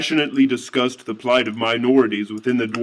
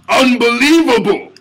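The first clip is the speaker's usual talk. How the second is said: high, loud, indignant cry; outraged exclamation; 11 semitones higher, 8 dB louder than usual. A narrator's reading. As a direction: throw it up in disbelief.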